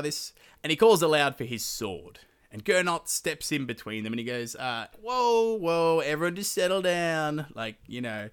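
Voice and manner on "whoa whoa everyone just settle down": high, loud whoas easing downward; urgent peacemaking. Acted. Gernot steps in between the angry men, urgent peacemaking. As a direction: call out to halt a brewing fight.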